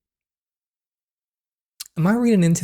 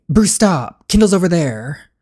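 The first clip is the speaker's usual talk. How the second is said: raised voice calling Bruce to stop; 3 semitones higher, 5 dB louder than usual. Acted. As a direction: call out to stop him. Character calling out.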